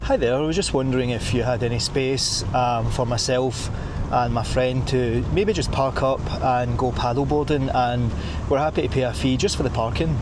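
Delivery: mock English politeness in measured phrases; polite English accent. Shown as a demonstration. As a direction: ask courteously as an Englishman would. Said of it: "how it would go in England".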